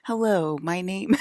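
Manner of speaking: high, careful practice American accent. Shown as a demonstration. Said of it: "practicing my American accent".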